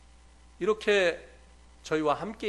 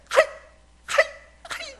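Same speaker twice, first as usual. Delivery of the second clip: imitated wailing; 8 dB louder than usual. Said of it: "이러면서 막 우시는 거예요".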